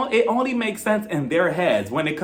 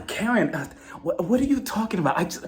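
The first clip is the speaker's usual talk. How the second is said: playing dumb; 4 semitones higher than usual. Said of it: "acts like she doesn't know".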